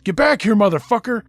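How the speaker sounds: retold shout. Chasers shouting after him.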